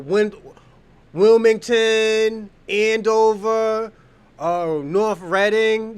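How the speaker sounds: put-on slow, drawn-out Massachusetts town accent; mock Massachusetts accent. Naming towns where they talk like that, Massachusetts accent. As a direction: stretch each town name in local Massachusetts accent. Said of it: "They talk like that in those racist places".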